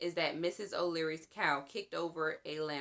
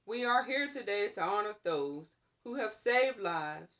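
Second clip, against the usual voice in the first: formal speech. Acted. Mayor honoring heroes at the celebration, formal public address. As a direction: proclaim to the crowd with ceremony.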